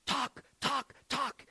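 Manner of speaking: broken Slovak English, rising to a call; imitating an old Slovak man urging him on; Slovak accent. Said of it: "That's how he would say it".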